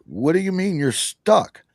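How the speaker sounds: imitating a baffled neighbor, pitched high; mock disbelief. Neighbor asks how he's stuck in the shower, mildly incredulous. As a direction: retell it as a high, incredulous question.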